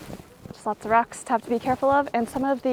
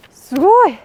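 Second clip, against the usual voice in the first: amazed shout, higher and louder; excited shout; 8 semitones higher, 12 dB louder than usual. Real, not acted. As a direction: burst out in awe. Seeing crater view.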